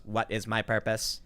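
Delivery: slow flat robot voice; a little robot asking slowly. Retold or imitated. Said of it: "the robot goes".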